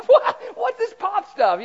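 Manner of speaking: high, slow mock disbelief at pop; mock surprise. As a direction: act baffled by the word pop.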